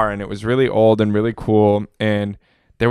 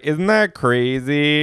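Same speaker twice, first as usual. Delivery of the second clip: drawn-out, self-satisfied imitation; slow, boastful put-on voice; mock bragging; 3 semitones higher, much slower than usual. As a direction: imitate someone showing off, stretching it slowly. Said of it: "almost bragging about how".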